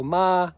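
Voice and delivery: ma held level, no rise or fall; flat tone ma. Shown as a demonstration. Teaching Thai tones to viewers, level ma. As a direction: say ma on one even pitch. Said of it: "flat tone".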